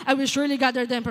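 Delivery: loud, blunt scripture reading; the wrong, too-hard way to read God's words; harsh reading. Shown as a demonstration. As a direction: bark the verse at them like scolding a spouse. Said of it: "ganun ka ba makipag-usap sa asawa mo?".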